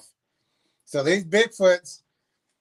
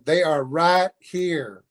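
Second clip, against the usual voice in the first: robotic alarm voice; much slower than usual. Retold or imitated. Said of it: "alarm go off, that saying".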